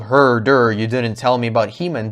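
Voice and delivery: dopey mocking impression; mock her whining, dim-witted. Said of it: "she does the whole".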